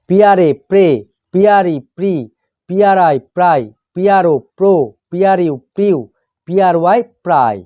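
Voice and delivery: teacher's measured spelling recitation, pausing between items; pronunciation drill. Shown as a demonstration. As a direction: spell out the letters, then sound the blend. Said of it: "উচ্চারণ এইভাবে হয়". (বানান করে উচ্চারণ শেখানো)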